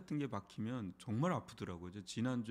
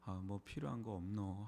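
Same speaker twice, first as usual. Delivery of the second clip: Gyeongsang warmth; 4 semitones lower, 5 dB quieter than usual. Retold or imitated. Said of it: "따뜻한 말 한마디".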